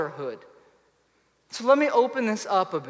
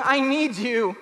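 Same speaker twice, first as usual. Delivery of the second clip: put-on loud, slow, pleading baby cry; drawn-out, needy wail for help; infant crying out; 4 dB louder, slower than usual. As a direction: call out like a helpless infant in need. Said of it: "the first guttural cry of reaching out, going".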